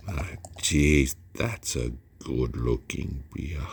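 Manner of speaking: frown and lean hard into it; aggressive frowny delivery. Shown as a demonstration. Beer reviewer admiring the pour, said aggressively. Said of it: "See the way I said it?".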